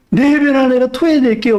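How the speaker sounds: high, hammed-up weepy promise; put-on crying voice, pitched high; mock tearful pledge. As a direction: wail it in fake repentance. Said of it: "삭개오 울었다는 얘기 없습니다".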